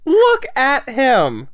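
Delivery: high, loud delighted shout; excited squeal. Real, not acted. Squealing over cute character.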